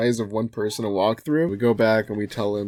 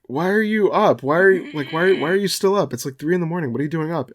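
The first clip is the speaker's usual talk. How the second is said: quoting dad; 7 semitones higher, 3 dB louder than usual. Retold or imitated. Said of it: "And he's like".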